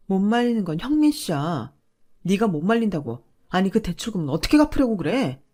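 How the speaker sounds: 목소리 높여 다그치듯; 대출 일로 남편을 몰아세우는 화난 목소리; 따지는 화. Acted. 아내가 남편에게 따지는 부부싸움. (남편에게 언성을 높여 따지는 아내)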